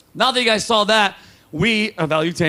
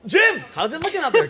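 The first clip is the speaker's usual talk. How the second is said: imitating Kelly; 5 semitones higher than usual. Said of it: "Kelly's voice in that".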